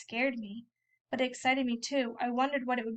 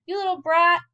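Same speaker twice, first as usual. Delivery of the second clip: louder and higher, a sharp angry snap; angry outburst; 6 semitones higher, 9 dB louder than usual. Acted. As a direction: snap it at the kid who splashed you. Sam splashed with milk, cursing.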